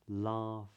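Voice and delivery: "laughing" with a long ah, back of the tongue up for ng; drawn-out "laughing" ending on ng; modern british accent. Shown as a demonstration. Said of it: "So it goes".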